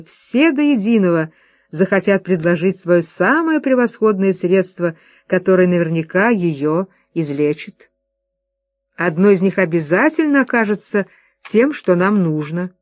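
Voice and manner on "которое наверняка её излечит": plain reading voice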